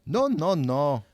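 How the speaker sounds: high, loud, drawn-out objection; crying out in protest. A narrator's reading. Seamus objects to the wrong song, crying out. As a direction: cut him off with long high cries. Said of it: "I cried".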